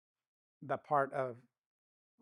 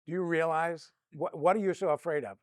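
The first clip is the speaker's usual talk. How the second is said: exasperated wife; 4 semitones higher, 4 dB louder than usual. Retold or imitated. Wife's retort retold.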